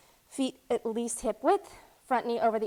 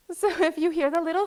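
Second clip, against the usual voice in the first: laughing; 5 semitones higher, 7 dB louder, faster than usual. Real, not acted. Daughter sneaking in with water.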